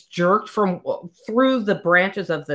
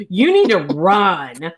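mild mock yell, louder and slower; retold scream; 5 dB louder than usual. Gemma screaming to Daisy as they flee, mild retold scream. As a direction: call it out slowly, a touch urgent. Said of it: "she starts screaming to Daisy".

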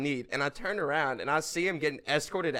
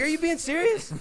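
high, loud mock disbelief; retold incredulity; 13 semitones higher, 6 dB louder than usual. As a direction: throw it back in exaggerated disbelief. Retold comeback to the heckler.

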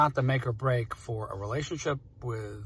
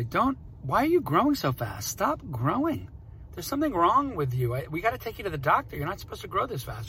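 higher, playful fake alarm at a growing kid; mock-scolding dad; 6 semitones higher than usual. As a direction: tease her as if it were a real problem, pitch up. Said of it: "this running gag with my daughter where I'll say".

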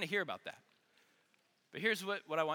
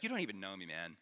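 low, subdued grumble of protest; quietly put-out, sinking in pitch; acted hurt protest; 10 semitones lower, 5 dB quieter, faster than usual. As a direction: let it drop low and trail down on "man". Reacting to being judged.

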